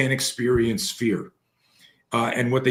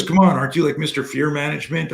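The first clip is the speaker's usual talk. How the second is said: higher and louder, a teasing dare; teasing challenge; 5 semitones higher, 3 dB louder, faster than usual. Retold or imitated. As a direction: needle him playfully, pitched up. Friend teasing him to jump.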